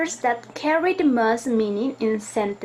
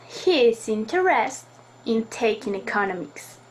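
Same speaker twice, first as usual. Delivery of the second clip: interested said louder than the rest; louder stress. Shown as a demonstration. Teacher demonstrating volume stress for students, louder interested. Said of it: "just raise the volume in some words".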